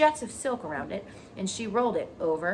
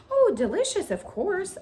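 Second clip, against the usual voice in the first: high, loud, gushing "delicious"; delighted spider; 13 semitones higher, 8 dB louder than usual. Acted. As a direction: savour the word like a treat. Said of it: "Charlotte relishes her food".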